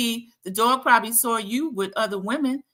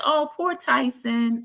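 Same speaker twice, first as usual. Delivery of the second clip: mock pity; 5 semitones higher, slower than usual. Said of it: "make women feel like".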